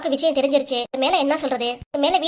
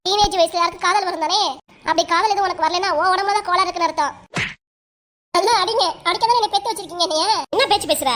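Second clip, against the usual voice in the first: raised, heated scolding back and forth; mother daughter quarrel; 4 semitones higher than usual. Acted. Mother scolds her daughter over a secret lover, heated and raised. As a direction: argue like a mother catching her daughter in love.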